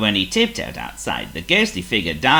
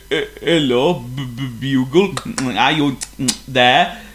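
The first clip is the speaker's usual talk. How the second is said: nervous, stammering, higher voice; worried stammer; 9 semitones higher, 6 dB louder than usual. A narrator's reading. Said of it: "a sort of worried wildebeest".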